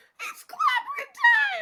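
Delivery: very high, squeaky helium voice. Quoting a comic line spoken by a shrunken-down Ben: Ben's helium voice. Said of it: "he has a little, like, helium voice".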